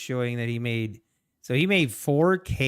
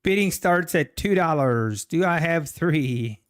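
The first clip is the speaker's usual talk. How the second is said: auctioneer voice; 3 semitones higher, 5 dB louder than usual. Pretend. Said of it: "I should do my auctioneer impression".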